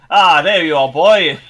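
acted hero setting off; greeting his steed. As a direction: hail your horse like an adventurer. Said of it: "Leon is like".

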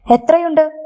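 suddenly eager at the sight of money; greedy tremor. Acted. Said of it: "അവളുടെ ശബ്ദം പെട്ടെന്ന് മാറി". (അത്യാർത്തിയുടെ നേരിയ വിറയലോടെ)

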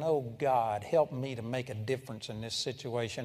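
low, softened retold plea; inward prayer. Preacher retelling his silent plea to God in the Army, inward prayer. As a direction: drop pitch and volume for a silent prayer. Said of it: "I was sitting there thinking".

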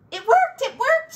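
high, loud triumphant cry; delighted cry. Acted. Grandma Poss seeing Hush fully visible: delighted cry. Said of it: "she cried".

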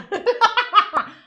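a sudden loud burp. Real, not acted. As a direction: let out a real burp. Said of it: "Geğirdim".

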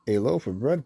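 "A loaf of bread?" with a rising, disbelieving tune; mildly astonished echo, lifting on "bread"; a touch of disbelief, rising on "bread"; surprised cry. Acted. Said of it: "cried Missus Hayes".

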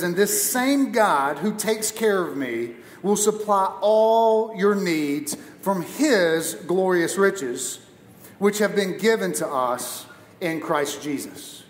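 slow, deliberate reading of the verse; scripture reading. Shown as a demonstration. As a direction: lean on all, reading it out slowly. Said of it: "Philippians four nineteen says".

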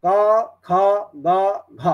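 "क, ख, ग, घ" spelled out one by one from the throat; guttural consonants. Shown as a demonstration. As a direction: sound each of "क ख ग घ" from the back of the throat. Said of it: "क वर्ग".

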